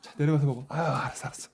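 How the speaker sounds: high, loud fond scolding of a pet; talking to a dog. Real, not acted. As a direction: shoo the dog off to eat. Sending the dog down to eat.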